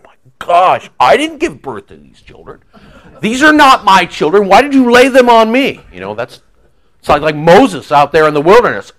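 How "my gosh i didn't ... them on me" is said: frustrated outburst, climbing higher at the end; Paul. Acted. Paul fed up with the Corinthians, frustrated. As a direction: play exasperation that builds into a pleading protest. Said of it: "Paul is so frustrated with the Corinthians".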